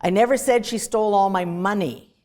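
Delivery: even run up to "money", which carries the weight and falls; stress on MONEY. Shown as a demonstration. Lecturer finishing the set of meanings, stress on MONEY. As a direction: save the emphasis for "money". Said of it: "to finish the set".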